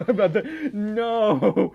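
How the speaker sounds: loud, amused refusal; laughing protest. Real, not acted. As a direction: cry out in mock horror through laughter. Laughing protest at Southern request.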